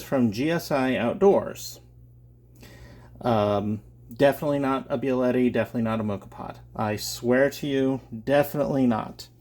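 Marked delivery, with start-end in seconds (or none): 4.1-9.3 loud, emphatic tongue-in-cheek denial; mock insistence. Shown as a demonstration. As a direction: swear it with a wink. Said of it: "I say tongue-in-cheek that they are not moka pots".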